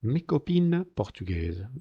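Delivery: MES COPINES with no S sound before the C; silent S. Shown as a demonstration. Teacher showing where liaison is absent, MES COPINES slowly with silent S. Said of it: "Veis que la S no suena".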